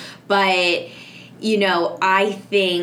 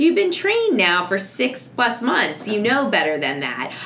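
mildly scolding parent; 4 semitones higher than usual. Retold or imitated. Mom to potty-trained child after accidents, mildly reproving. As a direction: lightly mimic a parent reminding a child who knows better.

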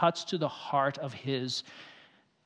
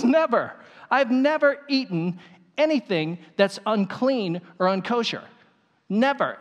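raised, insistent never; emphatic refusal; 4 semitones higher than usual. Acted. Peter refusing God's voice.

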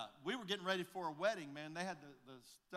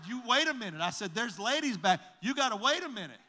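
higher, louder, laughing through the warning; laughing mock alarm; 6 semitones higher, 7 dB louder than usual. Pastor stopping an eager convert, laughing and louder. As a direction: call him back while cracking up. Stopping a man stripping in church.

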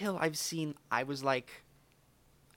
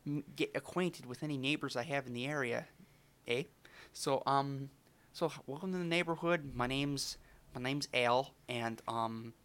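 put-on Al, Canadian accent. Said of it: "you could probably tell from my accent".

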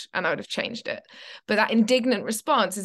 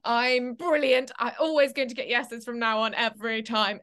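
slow, higher, self-satisfied boast; mock arrogant; 4 semitones higher than usual. Actor after a run of yeses, slow mock boast. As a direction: savour your own greatness. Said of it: "and you're like".

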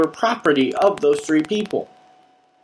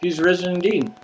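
bored congregation. Retold or imitated. Congregation dully answering the pastor on Easter, bored. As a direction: mumble it back like a bored churchgoer. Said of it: "they look bored at some point".

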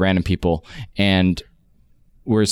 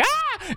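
mock shriek; 5 dB quieter than usual. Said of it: "we all shriek".

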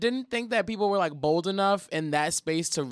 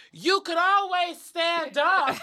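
high, slow, sugary white-lady voice; 11 semitones higher, slower than usual. Retold or imitated. Friend mocking a seated girl in a white-lady voice. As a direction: lift the voice up high and draw it out primly. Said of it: "the friend's white voice".

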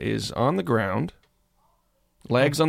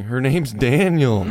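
slow, a bit louder call of the name; retold shout; 2 semitones higher, 5 dB louder, slower than usual. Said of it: "I remember shouting".

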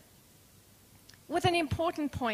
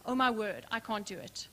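overwhelmed despair; 7 semitones lower, 6 dB quieter than usual. Pretend. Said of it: "I want you to feel this".

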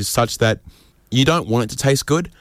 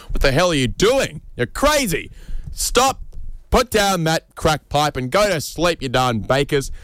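much higher, hammed-up frantic scolding; mock scolding; 6 semitones higher than usual. Comedian scolding sleepless bakers, hammed-up high frantic. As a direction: yell at them to stop in mock panic.

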